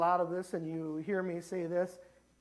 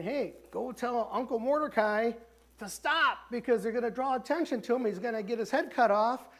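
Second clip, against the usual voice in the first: higher, louder, hurried pleading as Esther; urgent Esther; 5 semitones higher, 3 dB louder than usual. Retold or imitated. Esther sending word to her uncle, urgent higher plea. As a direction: beg him to stop before the king notices. Esther urges stopping Mordecai, retold.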